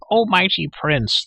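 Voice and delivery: high, loud, drawn-out creature wail. A narrator's reading. Creature begging the mighty prince, wailing. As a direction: wail it slowly, high and piteous. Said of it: "the creature wailed".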